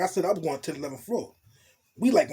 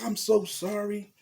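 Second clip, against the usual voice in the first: voicing the woman higher, scolding and worried; a lightly voiced, higher fretful woman; girl's worried voice; 5 semitones higher, slower than usual. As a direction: play the anxious girlfriend fussing over him. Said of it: "she's like".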